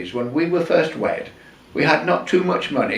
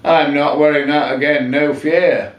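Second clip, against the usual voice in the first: a lightly voiced wife, louder and adamant; wife's firm refusal; 2 semitones higher, 4 dB louder than usual. Wife refusing to wear the dress again, firmly. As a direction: put your foot down, no arguing. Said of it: "Eileen said something".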